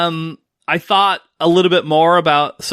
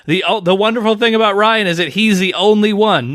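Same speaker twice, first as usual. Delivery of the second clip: imitating Tigger; 6 semitones higher than usual. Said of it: "Tigger from Winnie the Pooh".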